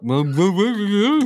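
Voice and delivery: wordless muffled woo-woo babble; mock mouthful mumbling. Teasing friend about how he talks to somebody, mock muffled babble. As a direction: garble it into woo-woo noises. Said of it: "every time you talk to somebody, you're like".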